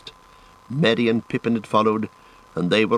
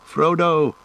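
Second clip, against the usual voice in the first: high-pitched, drawn call; 7 semitones higher, 3 dB louder than usual. A narrator's reading. Sam toiling uphill after Frodo, calling. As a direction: call for a missing friend. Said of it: "panting and calling".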